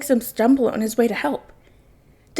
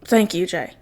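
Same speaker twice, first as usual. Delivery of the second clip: sincere, lower thanks; grateful; 4 semitones lower than usual. Acted. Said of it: "Bruce calls out to him".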